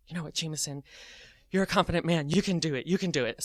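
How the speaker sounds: soft muttered self-encouragement; private pep talk. Retold or imitated. Teller psyching himself up for parking lot, quiet pep talk. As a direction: coach yourself under your breath.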